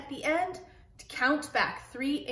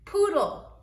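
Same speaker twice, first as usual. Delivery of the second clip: Poodle said higher and louder, bright model; teacher model of Poodle, higher and louder; teacher modelling; 6 semitones higher, 6 dB louder than usual. Shown as a demonstration. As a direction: Poodle called out high and loud for the class. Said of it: "some words that have L E at the end".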